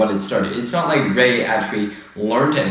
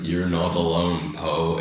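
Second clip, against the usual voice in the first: lower, softer mock-heroic line; lightly voiced solemn hero; mock Lando; 6 semitones lower, 5 dB quieter than usual. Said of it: "Lando, and it's like".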